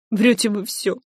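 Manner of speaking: sorrowful accusation; grieving, bitter reproach; mournful. A narrator's reading. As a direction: say it with grief. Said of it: "скорбно заявила женщина".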